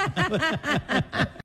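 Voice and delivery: high burst of laughter; laughing. Real, not acted. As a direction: break up laughing. Laughing at own prank.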